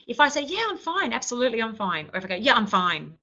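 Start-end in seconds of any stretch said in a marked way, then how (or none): 0.4-2.1 high Yeah, I'm fine, lifted up the scale; cheery, high Yeah to fake being okay; higher, chirpy Yeah, I'm fine; bright fine. Shown as a demonstration. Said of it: "I'm saying the same words". 2.3-3.2 clipped resentful Yeah, I'm fine; a short, sulky Yeah, I'm fine; curt fine. Shown as a demonstration. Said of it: "but my tone of voice is different".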